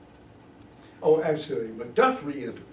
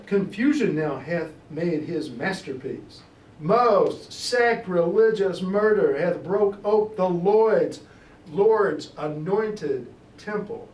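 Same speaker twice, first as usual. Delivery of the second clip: louder, slow proclamation of the murder; declaimed lament; 4 semitones higher, 6 dB louder, slower than usual. Acted. Macduff announces the king's murder, loud dramatic proclamation. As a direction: announce the sacrilege with full force.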